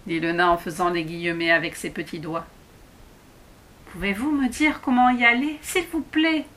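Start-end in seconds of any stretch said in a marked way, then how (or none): 3.9-6.5 put-on higher, pleading girl; a girl begging the dwarf to show the way. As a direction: beg him politely, rising up. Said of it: "le supplia Alice".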